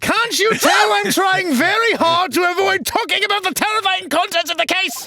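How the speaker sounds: very high loud yelling. Voicing a character avoiding talk of a skeleton in a case: raised voice. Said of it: "no need to raise your voice like that".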